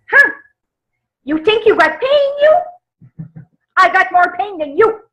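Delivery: high mock thick French accent, old aunt griping; imitating a French accent. Elderly French aunt topping a roommate's pain, in a thick French accent. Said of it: "who had the thickest French accent you could ever imagine".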